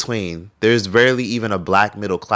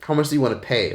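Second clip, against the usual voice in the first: cold stank look; 4 dB quieter, faster than usual. Retold or imitated. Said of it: "looking at me stank".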